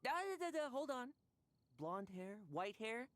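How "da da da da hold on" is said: thinking aloud. Acted. Knight stops to think.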